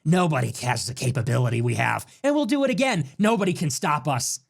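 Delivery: lightly put-on presidential boast; a hint of an impression, swinging up in pitch midway; Trump. Calling in to Fox News after the raid, lightly imitated boast. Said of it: "and he says".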